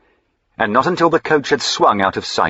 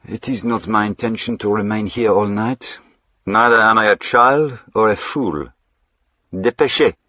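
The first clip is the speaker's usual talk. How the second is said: put-on French accent; 3 semitones higher than usual. Jack speaks as French-accented gentleman.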